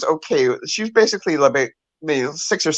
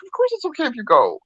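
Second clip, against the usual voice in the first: imitating dad; 11 semitones higher than usual. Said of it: "And he's like".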